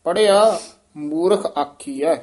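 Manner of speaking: ਪੜ੍ਹਿਆ set apart from ਮੂਰਖ; break after ਪੜ੍ਹਿਆ. Shown as a demonstration. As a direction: halt briefly on ਪੜ੍ਹਿਆ, then continue. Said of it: "ਇੱਥੇ ਯਮਕ ਲੱਗ ਜੇਗੀ".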